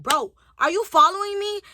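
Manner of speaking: high-pitched indignant question; retold challenge as patience runs out; temper rising. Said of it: "my temper just started".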